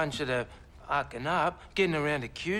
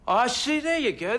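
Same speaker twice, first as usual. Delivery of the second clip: higher, louder I-told-you-so; louder, raised, huffy retort; indignant; 6 semitones higher, 4 dB louder than usual. Acted. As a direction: bristle as if accused. Witness feels accused.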